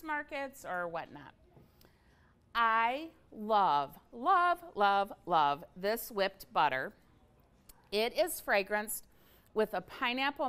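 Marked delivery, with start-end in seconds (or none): 2.5-6.9 gushing. Real, not acted. Gushing over a product.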